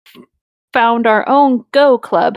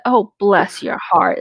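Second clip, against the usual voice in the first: slow "Oh, bless your heart" dripping with pity; "Oh, bless your heart" as a slow put-down; condescending; slower than usual. Shown as a demonstration. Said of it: "It means you a dumb child".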